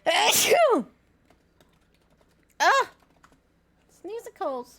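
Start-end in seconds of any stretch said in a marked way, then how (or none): 0.1-2.9 big loud sneeze. Real, not acted.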